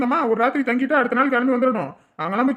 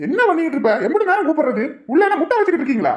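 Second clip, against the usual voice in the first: scolding, pitched up; irritated father hollering his complaint; impatient yelling; 5 semitones higher, faster than usual. Acted. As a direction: tell off a son for keeping you waiting. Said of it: "அப்ப எது கத்துறீங்க".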